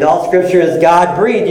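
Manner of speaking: "God-breathed" emphasized at the end; stress on GOD-BREATHED. Shown as a demonstration. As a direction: land the weight on "God-breathed". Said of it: "start meditating on them like that".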